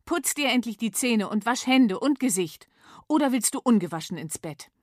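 mild mock scolding; scolding mom. Mama scolds Miss Mumm, a touch crosser. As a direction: grumble at the child. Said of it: "noch schimpfiger".

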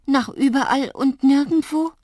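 loud, high, dismayed question; alarmed. A narrator's reading. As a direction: raise the voice in frightened disbelief. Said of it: "Mir wurde kalt und zittrig". (laut und erschrocken fragend)

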